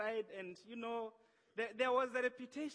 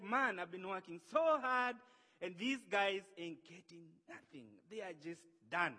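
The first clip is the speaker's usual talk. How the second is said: frustrated; 4 dB louder than usual. Acted. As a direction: vent mild frustration, then let it drop. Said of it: "He was frustrated".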